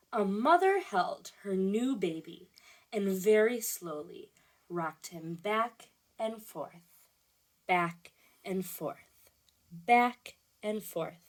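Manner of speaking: slow, lulling storybook reading; read-aloud to children. A narrator's reading. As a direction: let each back and forth rock slowly.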